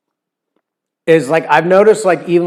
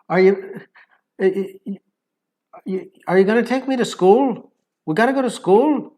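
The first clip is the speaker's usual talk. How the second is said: put-on higher-pitched Scottish little boy; light Scottish accent; 4 semitones higher than usual. Imitating a little boy asking about school, light Scottish accent. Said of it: "it's very light".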